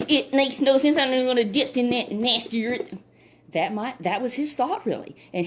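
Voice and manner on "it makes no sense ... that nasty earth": disgusted general. Acted. General scorns the river.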